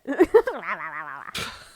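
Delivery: weird low noise. Acted. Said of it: "what the fuck was that noise".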